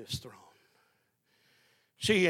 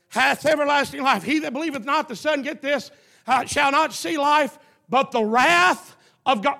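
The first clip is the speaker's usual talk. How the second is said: loud proclaimed verse; preaching scripture; 6 semitones higher, 7 dB louder than usual. Acted. Quotes scripture loudly.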